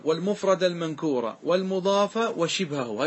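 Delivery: slow, measured chant of the verse; slow classical verse recital; verse recitation. Shown as a demonstration. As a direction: recite the line of poetry slowly. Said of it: "ثم قال".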